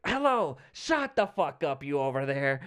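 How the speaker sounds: mock telling-off of a rowdy crowd; imitating brash comic. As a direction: play a wild comic taking on hecklers. Acts wild comic scolding the crowd.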